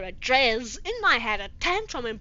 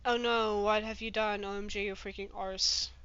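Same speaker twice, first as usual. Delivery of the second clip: deadpan; 4 semitones lower, 3 dB quieter than usual. Acted. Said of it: "I'm just gonna do it deadpan".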